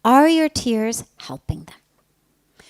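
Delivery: slow, whispered, no sarcasm; hushed, slow, matter-of-fact question; quiet plain truth. Retold or imitated. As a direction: let the truth land gently and slowly. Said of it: "This is just truth".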